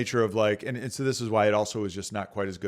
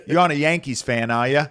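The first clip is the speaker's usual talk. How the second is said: thick Boston accent, louder and punchy; Mark Wahlberg; 5 semitones higher, 6 dB louder than usual. Shown as a demonstration. Imitating a Red Sox fan at the bar, thick Boston accent. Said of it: "thick, like, full-blown Mark Wahlberg Boston accent".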